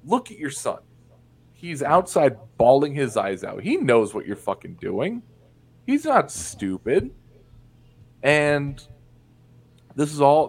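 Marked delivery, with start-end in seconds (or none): 0.0-7.1 imagined scolding. Pretend. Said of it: "shake 'em and be like".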